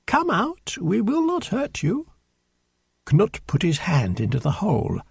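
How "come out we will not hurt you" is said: high, reassuring coaxing; gentle coaxing. A narrator's reading. Knut promising the hidden mouse no harm, coaxing. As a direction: coax it out in a raised pitch.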